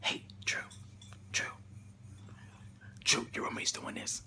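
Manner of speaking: imitating eerie faint whispers. Hallucinated voice calling Drew after sleep, in faint whispers. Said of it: "faint whispers".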